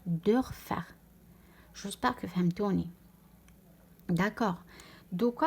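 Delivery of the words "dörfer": دورفر with a softened, fronted o; lightened umlaut ö. Shown as a demonstration. Teacher contrasts it with plain o, دورفر with ö. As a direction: say دورفر with rounded front ö, as Dörfer. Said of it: "شويه مخفى الاو".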